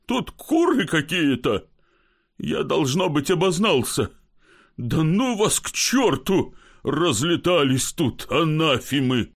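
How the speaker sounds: mild mock weeping; tearful voice. Kozyavkin whines to his friend that they broke into the wrong house. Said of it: "плачущим голосом".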